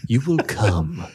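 mock hypnotist, rising into a loud high call; playful hypnotist command, building to a shout; commanding stage hypnotist calling his subject. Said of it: "I've hypnotized you".

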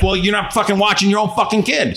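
acted-out indignant reply; indignant retort. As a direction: fire back at a negligent parent, mildly heated. Acted retort to an angry parent.

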